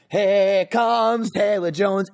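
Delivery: slow, drawn-out teasing announcement; mimicked greeting. Visitor greeting the dog by unwanted nickname, drawn-out teasing call. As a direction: stretch it out like a mocking call to a dog. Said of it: "Every fucking time he comes over".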